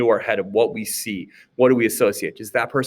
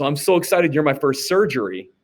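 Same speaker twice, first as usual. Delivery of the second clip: mock excited surgeon; 5 semitones higher than usual. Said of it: "looks at you and goes".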